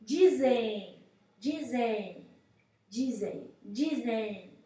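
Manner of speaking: repeated drill, fading; through the nose. Shown as a demonstration. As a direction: hum the end of "dizem" into the nose. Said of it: "Você fala aqui com o nariz".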